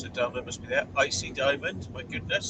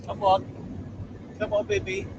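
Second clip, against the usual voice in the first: pet coaxing; 6 semitones higher than usual. Real, not acted. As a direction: urge the dog along in a high voice. Coaxing the dog.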